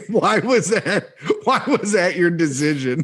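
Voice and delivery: laughing through the question; giggling while asking, slowed down. Real, not acted. Laughing at the mishearing.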